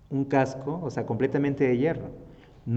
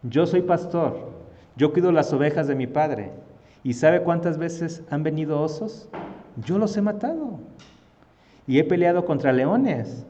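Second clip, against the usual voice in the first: higher, emphatic self-assured claim; orgullo decidido; 4 semitones higher, 3 dB louder than usual. Acted. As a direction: make your case to the king with conviction. Acted David boasting of past fights. (alegato firme y enfático)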